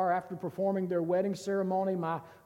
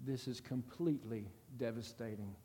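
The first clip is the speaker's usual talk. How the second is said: devastated; 7 semitones lower, 9 dB quieter than usual. Retold or imitated. Wife voices her despair.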